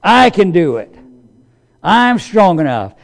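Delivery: mock self-confident "I can do it"; proud boasting. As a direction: puff up like a proud person. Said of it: "in our natural pride".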